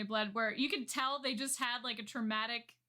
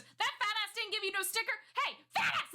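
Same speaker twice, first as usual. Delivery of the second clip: high-pitched mock shout at someone; retold scolding scream, jumping way up high; imitated screaming; 10 semitones higher than usual. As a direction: build to a high yell, imitating an outraged scolder. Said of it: "he's, like, screaming at him".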